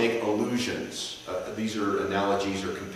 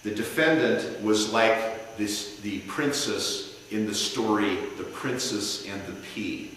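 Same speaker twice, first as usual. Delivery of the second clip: passionate closing argument. Shown as a demonstration. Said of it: "he could say something like".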